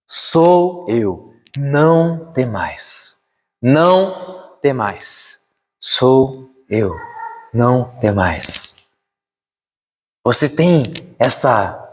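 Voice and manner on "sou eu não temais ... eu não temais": slow, measured repeated assurance; solemn, unhurried quote; voice of the Lord. Acted. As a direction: let each word stretch out. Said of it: "a voz do Senhor dizendo".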